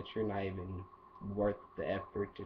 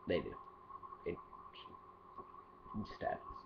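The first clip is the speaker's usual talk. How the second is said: whisper; 6 semitones lower, 13 dB quieter than usual. Real, not acted.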